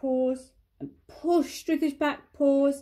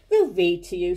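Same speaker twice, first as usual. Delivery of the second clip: cheerful; 5 semitones lower, 5 dB louder than usual. A narrator's reading. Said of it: "said Rabbit cheerfully".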